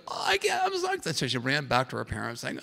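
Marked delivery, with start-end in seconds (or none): 0.1-1.2 much higher, squeaky little-girl impression; high-pitched mock child excitement; imitated excited child. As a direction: mimic an enthused young girl. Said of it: "she was really enthused".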